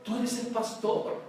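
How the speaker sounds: gently reining in the pastor; calm voice of God. Retold or imitated. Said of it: "Dios me dice".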